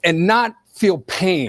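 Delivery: choked up and slow; crying. Real, not acted. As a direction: voice breaking with tears. Emotional clip, crying.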